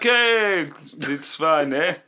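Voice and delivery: breezy fake Spanish accent, waving off the danger; mock Spanish accent. Mocking careless Spanish festival staff, in a hammed-up Spanish accent. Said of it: "I don't know what accent that was, but we're gonna say it was Spanish".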